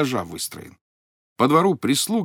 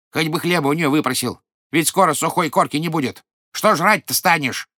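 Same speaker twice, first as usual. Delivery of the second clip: higher, louder nagging scold; angry old wife; 4 semitones higher, 4 dB louder than usual. Acted. Angry old wife nags husband about bread, sharp scold. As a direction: nag him sharply, voice rising. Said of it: "Озлилась старуха".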